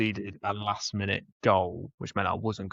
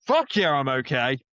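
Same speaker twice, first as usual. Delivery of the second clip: elated retort; 3 semitones higher, 3 dB louder than usual. Retold or imitated. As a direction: retell a jubilant answer, stretching the first word. Retells elated shout to worried family.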